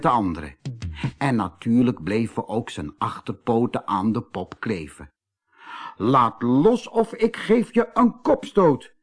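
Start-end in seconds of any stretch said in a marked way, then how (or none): 6.0-8.9 high, indignant cry; called-out threat. A narrator's reading. Kees stuck by his paws, calling out crossly. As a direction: call out a threat, pitched well up. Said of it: "riep Kees Konijn".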